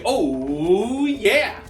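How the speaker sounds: high, loud "oh yeah"; excited cheer. Shown as a demonstration. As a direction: cheer it out for the kids.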